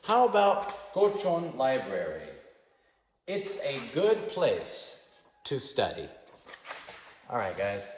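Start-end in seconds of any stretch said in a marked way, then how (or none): 0.0-6.1 modelled answer. Shown as a demonstration. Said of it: "now let's look for a because".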